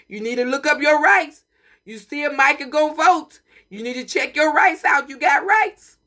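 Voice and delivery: building to a shout. Real, not acted. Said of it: "I get, start talking all loud".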